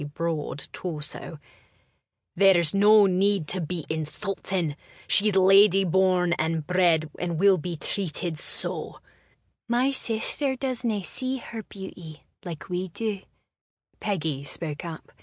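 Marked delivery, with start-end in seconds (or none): 2.3-9.0 stern brother. Acted. Brother defends sister sternly. 9.7-13.2 whispered, gentle sister. Acted. Peggy defends sister softly.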